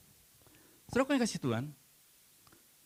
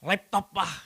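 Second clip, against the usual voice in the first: put-on child begging; 6 semitones higher, 6 dB louder, slower than usual. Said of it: "Saya dengar mintanya".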